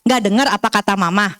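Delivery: mildly mock scolding of a child, stress on Kamu; a hint of a nagging mother; scolding parent. Shown as a demonstration. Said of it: "You message itu seringkali kita dengar".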